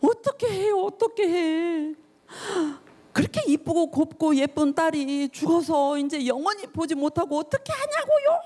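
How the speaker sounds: imitating a grieving neighbour, pitched high; mock lament. Mourners lamenting to Jairus over his dead daughter. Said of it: "야이를 보고 뭐라고 그랬을 것 같아요?".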